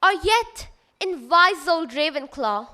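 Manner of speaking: measured rhyming recital, lifting then dropping each couplet; verse recitation. Acted. Student reciting the Sorting Hat's lines to festival audience, measured recitation. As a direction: declaim the rhyme with clear pauses.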